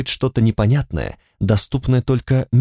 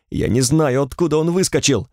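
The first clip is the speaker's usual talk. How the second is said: whiny cry; 5 semitones higher than usual. Acted. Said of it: "закричал плачуще".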